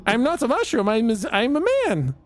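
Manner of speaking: high mixed-up mushroom voice; damp muffled mushroom voice. Acted. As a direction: let the voice slide up and tangle. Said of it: "the voice is getting all mixed up".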